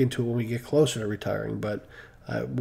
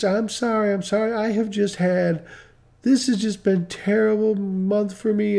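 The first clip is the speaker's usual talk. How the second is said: higher-pitched retold lament; imitated upset apology; 6 semitones higher than usual. Tearful customer apologizing to the storage man, lightly imitated.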